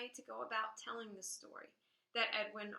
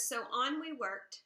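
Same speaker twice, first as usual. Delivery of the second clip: poem quote. Shown as a demonstration. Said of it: "It says".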